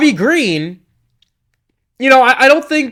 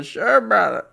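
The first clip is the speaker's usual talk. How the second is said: higher-pitched, badly faked Portuguese accent; 5 semitones higher, 3 dB quieter, slower than usual. Fighter agrees to go to the island, mock Portuguese accent. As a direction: attempt a Portuguese accent and miss. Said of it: "in his Portuguese accent or whatever".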